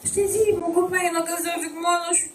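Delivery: tearful. Acted. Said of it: "Tu vas me dire pourquoi tu pleures".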